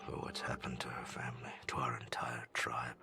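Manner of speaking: an elder confides the family tragedy, hushed and grieving; hushed confession. Acted. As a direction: confess the old wounds under your breath. Hushed retelling of tribe's past.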